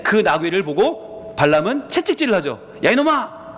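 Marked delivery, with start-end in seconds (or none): 2.8-3.4 higher, scolding yell at a stubborn donkey; angry master scolding. Retold or imitated. Balaam whipping his donkey, a mock angry scolding. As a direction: berate the donkey like a betrayed owner. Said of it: "배신감을 느끼고 채찍질을 하는 거죠".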